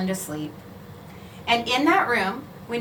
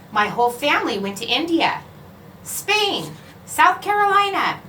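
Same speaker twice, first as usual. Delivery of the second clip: proud classmate listing places, rising higher; boastful listing; 4 semitones higher than usual. Acted. Classmate boasting to the class, rising pitch. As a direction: show off each trip, voice climbing.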